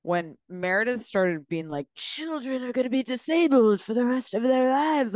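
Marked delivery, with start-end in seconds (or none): 2.0-5.1 mock fake English accent. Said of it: "using her fake English accent".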